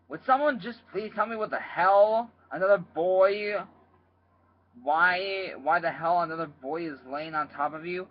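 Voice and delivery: loud, high, furious yelling; angry shout. Acted. Father walks in on his son, shouting furiously. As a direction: bellow it at the boys. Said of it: "he shouted".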